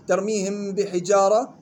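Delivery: ترميهم بحجارة with a held hum before b; labial ikhfa. Shown as a demonstration. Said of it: "إخفاء شفوي". (ترميهم بحجارة بإخفاء الميم مع الغنة)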